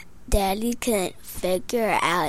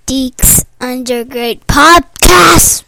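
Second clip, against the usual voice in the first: said louder, with more push; 5 dB louder than usual. Pretend. Child asked to say the podcast name louder. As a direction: say it louder, on request. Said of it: "Say it louder".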